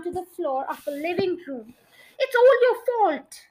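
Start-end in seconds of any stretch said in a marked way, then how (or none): 2.2-3.4 loud, higher angry yell. A narrator's reading. Husband yelling blame at his wife, angry yell. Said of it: "yelled Mister Twit".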